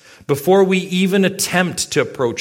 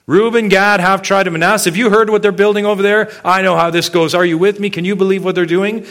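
louder, higher rallying cry to the tribes; riled-up call to arms; 4 semitones higher, 4 dB louder, faster than usual. Retold or imitated. Israelite rallying the assembly for war, louder and higher. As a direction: stir up the crowd against Reuben and Gad.

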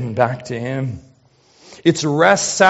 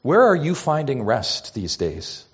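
ordinary talk, nothing marked

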